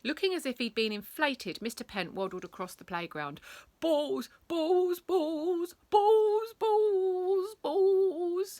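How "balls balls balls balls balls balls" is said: high, loud, manic chanting; manic muttering. Acted. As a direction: repeat it like a man obsessed. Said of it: "he kept repeating to himself".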